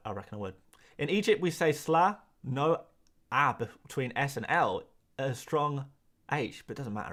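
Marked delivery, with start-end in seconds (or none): none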